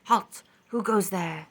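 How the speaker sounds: loud, commanding halt; Neptune shouting. A narrator's reading. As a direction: bark it like a sentry. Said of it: "Neptune shouted".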